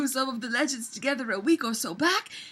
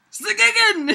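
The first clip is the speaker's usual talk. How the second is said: mock triumphant name; 8 semitones higher, 8 dB louder than usual. Shown as a demonstration. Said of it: "never known how to pronounce".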